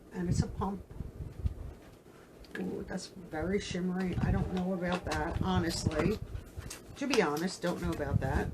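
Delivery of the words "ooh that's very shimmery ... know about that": talking with a runny nose; sniffly, stuffed-up runny nose voice. Real, not acted. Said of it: "my nose is running crazy today".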